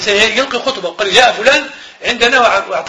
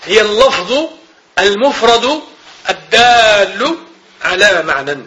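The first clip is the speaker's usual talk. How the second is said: إملاء بطيء؛ يملي التعريف كلمة كلمة مع وقفات؛ نطق متأنٍ كأنه يملي على الطلاب؛ إملاء بطيء مقطّع; slower than usual. Shown as a demonstration. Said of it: "يملي التعريف ببطء".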